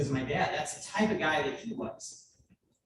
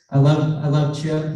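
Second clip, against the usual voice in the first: loud, heartfelt shout; loud declaration; 14 dB louder than usual. Real, not acted. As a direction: call it out loudly. Shouting love to brother.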